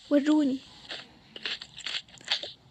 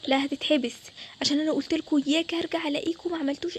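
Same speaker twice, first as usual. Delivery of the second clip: acted angry mother; stern refusal; 2 semitones lower, 4 dB louder than usual. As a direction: shut the plea down firmly. Mother refuses the child's plea.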